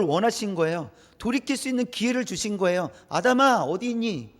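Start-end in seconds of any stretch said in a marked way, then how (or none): 3.1-4.3 God calling Adam, higher and louder; loud divine call. Acted. God calling out to hiding Adam, raised loud voice. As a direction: call out across the garden to find him.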